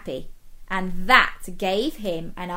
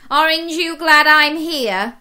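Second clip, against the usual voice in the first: cheery crayon voice; 7 semitones higher, 10 dB louder than usual. Acted. Crayon character letter, cheery.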